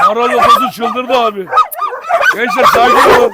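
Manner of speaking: high excited squeal at the frenzied cage. Real, not acted. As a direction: shriek it out as the dogs go wild. Dogs going wild in cage.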